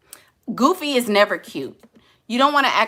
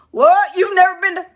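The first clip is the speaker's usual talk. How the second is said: loud, high-pitched incredulity; mock astonishment, pitched way up; shocked disbelief; 10 semitones higher, 7 dB louder than usual. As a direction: blurt it out, scandalized at their ignorance. Acted shocked reply of snobbish date.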